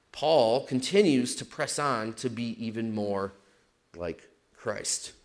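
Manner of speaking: losing voice, raspy and strained; hoarse, voice giving out; raspy whisper. Real, not acted. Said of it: "Sorry, I'm losing my voice".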